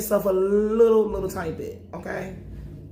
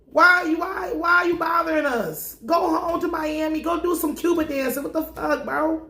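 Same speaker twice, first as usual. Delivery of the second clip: cops mock scolding; 6 semitones higher than usual. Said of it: "They like".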